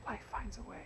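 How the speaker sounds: high, soft, airy film quote; breathy quoted movie line. Pretend. Quoting a famous film line.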